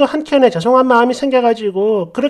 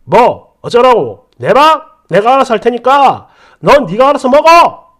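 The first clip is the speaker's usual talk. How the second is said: mock irritated retort; 5 dB louder than usual. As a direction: toss it back like a petulant boyfriend. Boyfriend snapping back.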